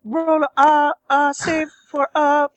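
lightly voiced sultry woman; Roz voice. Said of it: "to the Roz voice".

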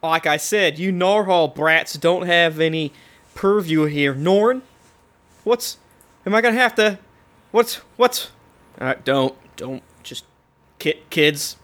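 put-on Southern constable accent, halting. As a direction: stumble along in a Southern lawman's accent. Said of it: "has a southern accent saying that".

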